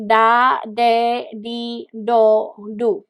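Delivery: soft R syllables tapped like an English D. Shown as a demonstration. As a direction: say each syllable with a light D-like R. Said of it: "so it sounds like".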